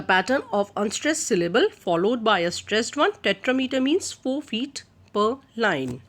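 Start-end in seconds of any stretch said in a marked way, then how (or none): none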